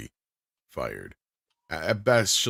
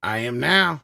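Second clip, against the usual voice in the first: a hint of a Southern accent, a bit louder; Southern Frank; 5 dB louder, slower than usual. Frank answering if he's a Southerner, Southern accent. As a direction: drop into a quick Southern accent. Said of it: "is Frank a, uh, Southerner?".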